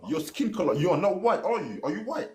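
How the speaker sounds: ordinary talk, nothing marked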